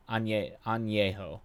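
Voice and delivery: "añejo" said slowly, syllable by syllable, trying the ñ; slow careful añejo. Shown as a demonstration. Streamer sounding out a Spanish word for chat. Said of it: "The N Y sound is the hard".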